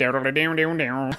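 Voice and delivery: imitating a twangy guitar riff under the breath; a quiet mock twang, like a western guitar; hummed guitar twang. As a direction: softly hum the Firefly-style twang. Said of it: "you know, that".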